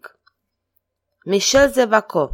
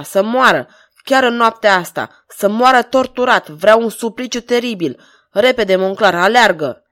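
louder, biting commands, anger finally exploding; furious orders; 4 dB louder than usual. Acted. King orders Monclar to torture the man, furious. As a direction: hammer each order out in rage. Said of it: "mânie comprimată făcu explozie".

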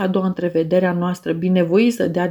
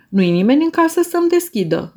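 higher, pushed-out call up to the window; a mild stage roar; roared reply; 8 semitones higher, 3 dB louder, faster than usual. A narrator's reading. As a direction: call out over the noise to him. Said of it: "răcni eu drept răspuns".

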